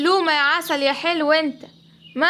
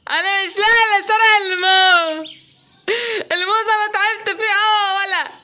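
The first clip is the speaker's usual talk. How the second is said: indignant shout; 4 semitones higher, 3 dB louder than usual. Acted. Monkey protests loudly.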